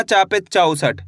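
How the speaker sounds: चौसठ with weight on its first syllable; stress on चा. Shown as a demonstration. Teacher shows where to put force, first syllable of चौसठ stressed. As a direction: lean on the opening चौ of चौसठ. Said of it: "इसी तरीके से आपको जोर लगाना".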